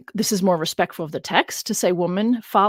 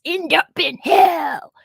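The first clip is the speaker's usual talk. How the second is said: ominous; 10 semitones higher, 5 dB louder, much slower than usual. Acted. Dramatic ending of retold verse.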